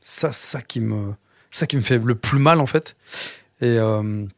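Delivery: real emotion welling up, halting; choked up, holding it together; very moved. Real, not acted. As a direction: struggle through it, pausing between phrases. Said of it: "je te sens très ému".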